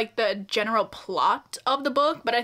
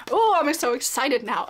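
excited. Real, not acted. Book fan reacting to next box's item, excited. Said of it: "I'm getting too excited".

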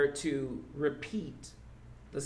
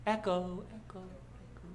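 each echo softer until it nearly vanishes; fading echo; 3 semitones higher, 7 dB quieter than usual. Shown as a demonstration. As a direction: call it out, then let it die away like an echo. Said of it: "Somebody say".

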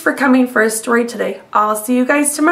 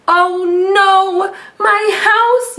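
high, sing-song mock yell; hammed-up dismay; 6 semitones higher, slower than usual. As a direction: cry out over the lost house, lightly. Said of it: "yelled Beaver".

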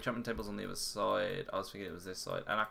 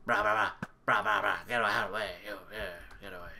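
mock yelling winding down; much faster than usual. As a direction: let the frantic shouting fizzle out. Yelling fit winds down.

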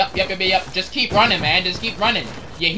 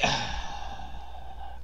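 long deflated sigh; 8 semitones lower, 14 dB quieter than usual. Real, not acted. Player who just died in game, deflated sigh. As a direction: let out a long, soft breath. Sighs after losing the round.

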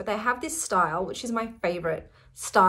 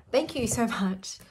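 tearful thanks. Real, not acted. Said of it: "here come the waterworks".

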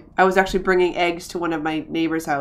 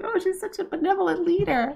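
mock praising voice; 11 semitones higher than usual. Voicing game characters praising.

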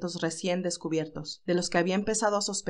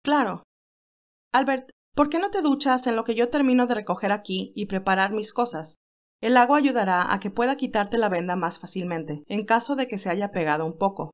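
cheerful Candy. Acted. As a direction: lift the voice for lively young Candy. Candy voiced by reader.

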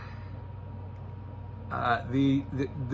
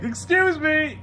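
mock polite; 12 semitones higher, 3 dB louder, slower than usual. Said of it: "just run and be like".

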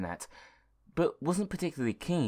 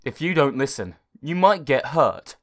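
warning computer; 2 semitones higher, 8 dB louder than usual. Acted. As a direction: caution the boy gravely. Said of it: "the computer replied".

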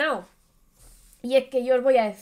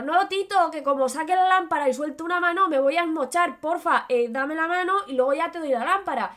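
higher, urgent begging; pleading kid; 5 semitones higher, 3 dB louder than usual. Acted. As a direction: plead while clinging to the wall, voice up. The chaval pleads again. (chaval suplicando con urgencia)

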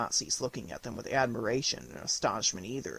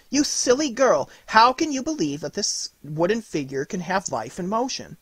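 scolding mother; 7 semitones higher, 5 dB louder than usual. A narrator's reading. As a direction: tease the child for being so silly. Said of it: "and said".

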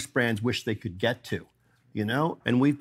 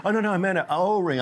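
lightly voiced nervous old man, higher; a hint of an embarrassed customer correcting himself; flustered old guy; 8 semitones higher, 3 dB louder than usual. Old customer Gary correcting casket to gasket, in a higher flustered voice. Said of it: "He goes".

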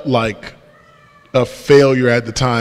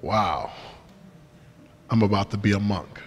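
softer, much lower, musing to himself; a quiet sinking realisation; lying on the bed, thinking it to himself, hushed and low; hushed inner thought; 5 semitones lower, 11 dB quieter than usual. Retold or imitated. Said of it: "all I can think is".

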